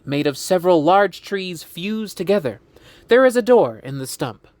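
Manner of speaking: measured storyteller reading stage directions; script narration. A narrator's reading. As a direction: read the scene out clearly. Reads script scene description.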